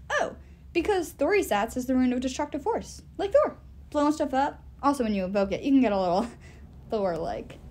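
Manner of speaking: a lightly voiced chatty magic sword; easy, know-it-all sidekick explaining; sword Jack voice.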